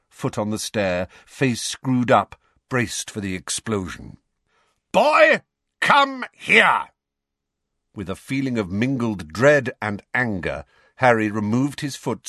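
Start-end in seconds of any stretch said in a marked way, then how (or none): 4.9-6.9 loud, high furious summons; barked command. A narrator's reading. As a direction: bark the order across the hall. Vernon summons Harry.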